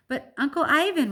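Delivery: put-on high, loud childish plea; high pleading whine. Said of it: "Ruby pleads".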